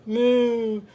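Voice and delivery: long drawn-out moo; cow moo. A narrator's reading. Cow mooing in a farm story, long moos. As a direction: imitate a cow lowing. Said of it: "went the cow".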